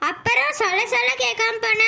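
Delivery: cross scolding. Acted. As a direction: scold her for not listening. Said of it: "கோவப்படாத". (கோபமாகக் கடிந்துகொள்வது)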